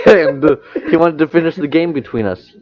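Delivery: high, loud talk breaking through laughter; laughing. Real, not acted. Friend resumes the school story after cracking up, laughing.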